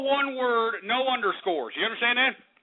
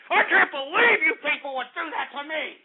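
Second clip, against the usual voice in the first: outraged disbelief. Real, not acted. Host to callers who betrayed him, outraged disbelief. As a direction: hammer it out in wounded outrage.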